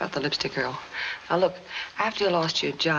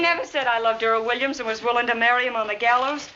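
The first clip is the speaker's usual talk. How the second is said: raised, indignant protest; angry denial; 3 semitones higher than usual. Acted. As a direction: insist hotly it's a lie. Molly denies the story.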